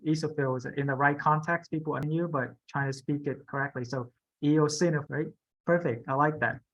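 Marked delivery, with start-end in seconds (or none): 4.4-5.0 "eosinophil" with the beat on SIN; stress on middle syllable. Shown as a demonstration. Teacher models the hardest word, middle stress on "eosinophil". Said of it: "the emphasis is on the middle".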